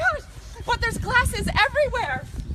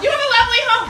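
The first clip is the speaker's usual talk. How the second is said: nervous overly polite; 6 dB louder, much faster than usual. Acted. Caught in stranger's house.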